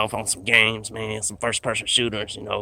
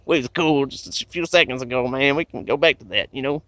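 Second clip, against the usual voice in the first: higher anxious pleading; 5 semitones higher than usual. Pretend. Pleading with the armed alien.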